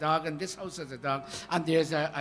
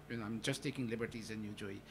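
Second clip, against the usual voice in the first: ordinary talk, nothing marked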